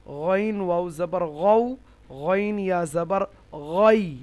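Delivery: গউ and গই drawn out with a thick, throaty first sound; heavy letter. Shown as a demonstration. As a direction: slowly spell out গইন, full and heavy. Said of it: "এটা হরুফে মুস্তালিয়া". (গইন, গউ, গই মোটা করে টেনে উচ্চারণ)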